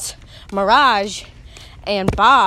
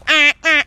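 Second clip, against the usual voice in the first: higher, louder imitated bird squawk; mock bird squawk; 5 semitones higher, 6 dB louder than usual. Imitating the rainforest bird call, higher and louder. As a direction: caw like a jungle bird. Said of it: "The bird that goes like".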